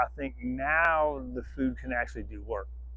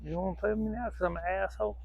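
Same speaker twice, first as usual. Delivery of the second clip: higher, softer and fast, teasing the dog; teasing dog talk; 4 semitones higher, 5 dB quieter, faster than usual. Real, not acted. Owner teasing her sulking dog, higher, softer and fast. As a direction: coax the dog like a pet you tease.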